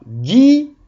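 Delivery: "guignol" high, broken into gui and gnol; "guignol" with a high, stretched gui, pause, gnol; split into syllables. Shown as a demonstration. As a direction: say "guignol" in two separated syllables. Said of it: "il y a deux syllabes écrites".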